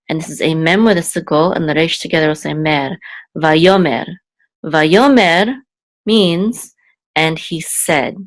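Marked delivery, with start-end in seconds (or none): 3.3-5.5 "va yomer" with "yo" punched; stress on second syllable. Shown as a demonstration. Teacher putting the word together, middle-syllable stress. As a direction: hit the "yo" in "va yomer". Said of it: "accent will be on the second syllable".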